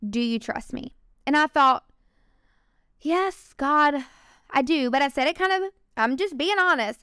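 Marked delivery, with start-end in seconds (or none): 0.1-0.9 quiet, conversational voice of God; God's voice. Retold or imitated. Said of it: "like I'm talking to you guys". 3.0-4.9 halting, hesitant answer to God. Retold or imitated.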